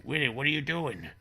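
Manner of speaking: high-pitched alarmed question; mock alarm. Father questions his freaking-out son in mock alarm. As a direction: exclaim it as a startled parent.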